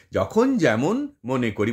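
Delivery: slow, with pauses between the feet; split into beats. Shown as a demonstration. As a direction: pace it out beat by beat. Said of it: "আমরা যখন যেমন মনে করি বলছি না".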